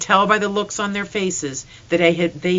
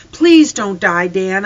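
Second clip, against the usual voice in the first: louder, mildly desperate plea; pleading; 2 semitones higher, 8 dB louder, slower than usual. A narrator's reading. Boy begging his dead dog, pleading. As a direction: beg with a touch of grief.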